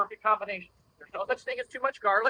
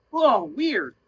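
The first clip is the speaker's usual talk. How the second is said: calm whoa; 6 dB louder than usual. Shown as a demonstration. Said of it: "if I just go".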